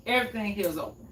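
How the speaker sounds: quick repeat. Shown as a demonstration.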